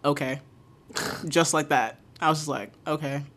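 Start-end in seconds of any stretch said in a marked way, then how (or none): 0.0-0.4 low flat okay; dropped pitch. Retold or imitated. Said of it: "I dropped my pitch from my customer service voice". 2.9-3.2 low flat okay; dropped pitch. Retold or imitated. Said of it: "I dropped my pitch from my customer service voice".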